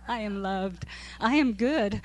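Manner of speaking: "I am loved. I am good." read in a teasing lilt on the edge of laughing; mocking sing-song. Teacher mocking the kids' book to her Bible study, stifling laughter. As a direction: poke fun at the phrase while holding back laughter. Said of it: "I don't know why this makes me wanna laugh".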